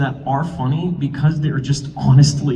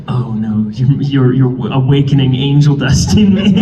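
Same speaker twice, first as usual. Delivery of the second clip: mock-dramatic character voice, a little louder; angel dust voice; 2 semitones lower, 5 dB louder, slower than usual. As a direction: play at the angel dust voice, lightly hammed-up. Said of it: "used the angel dust voice".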